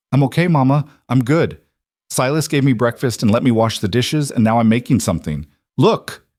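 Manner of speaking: put-on high, eager child voice; little girl voice. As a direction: chirp it like an excited kid. Child character voice.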